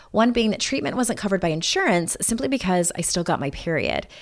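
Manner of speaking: polished, personal sponsor testimonial; smooth, rehearsed podcast ad delivery; scripted ad read. Acted. Reads a personal-story sponsor ad.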